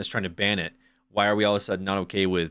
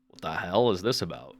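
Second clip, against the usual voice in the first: mock confused guy; 5 semitones lower, 4 dB quieter than usual. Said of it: "Dude's like".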